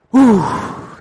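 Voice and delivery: loud, high "uh" of a near miss; a fan's loud gasp at a close call; startled gasp. Retold or imitated. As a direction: gasp as the ball nearly goes in. Father reacts to near goal.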